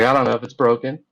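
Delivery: loud angry yell; furious shout. Retold or imitated. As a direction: throw the words out at full volume. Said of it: "I'm getting pretty furious".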